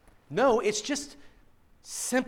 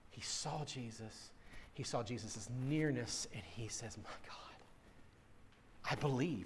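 awed hush; 10 semitones lower, 14 dB quieter than usual. Real, not acted. Awed hush at Thomas's confession.

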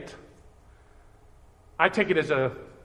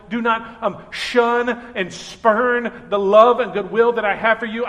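raised pleading voice; 4 dB louder than usual. Acted. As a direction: call out so they finally hear. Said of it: "He is raising his voice".

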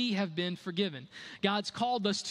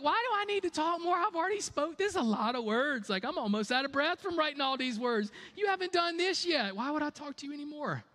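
mock God voice; 8 semitones higher than usual. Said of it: "God's like".

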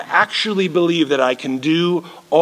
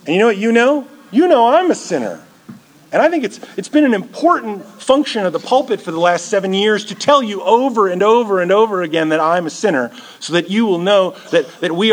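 raised preaching; 3 semitones higher than usual. Real, not acted. Preacher confessing to congregation.

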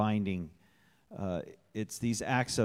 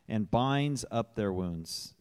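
slow verse, leaning on "binds"; stress on "binds"; slower than usual. Real, not acted. Church member reading a psalm aloud, stressing "binds". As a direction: give "binds" deliberate, drawn-out emphasis. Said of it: "emphasis on binds".

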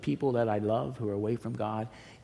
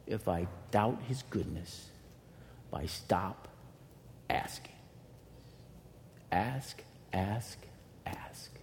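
softer and softer down to a whisper; fading to a hush; 5 semitones lower, 9 dB quieter, slower than usual. Real, not acted. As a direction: let it die away to a breath. Sermon fades to near whisper.

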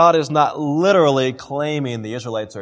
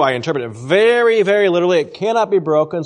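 literalist Jew; 4 semitones higher, 5 dB louder, faster than usual. Retold or imitated. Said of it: "So here's a Jew".

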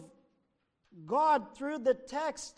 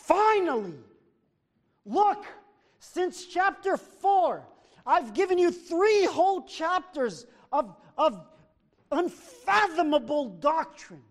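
emphatic Paul; 3 semitones higher, 4 dB louder than usual. Retold or imitated. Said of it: "he says".

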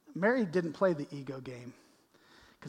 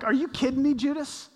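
incredulous outburst; 8 semitones higher, 5 dB louder than usual. Retold or imitated. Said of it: "you're like".

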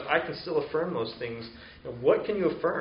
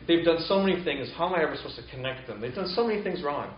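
mildly exasperated, emphatic complaint; exasperated protest; 3 semitones higher than usual. Acted. Churchgoer thinking about a difficult person, exasperated protest. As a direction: protest as if fed up, lightly acted. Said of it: "but I'm like".

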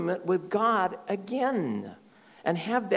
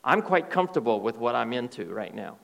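defiant denial; 6 semitones lower, faster than usual. Retold or imitated. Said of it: "they say".

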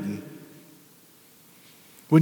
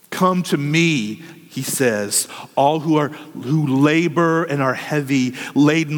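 slower and tender; slow gentle call; 4 semitones lower, slower than usual. Acted. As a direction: draw the invitation out gently.

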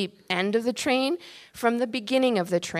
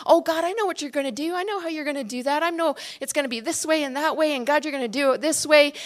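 know-it-all prayer; 5 semitones higher, much faster than usual. Retold or imitated.

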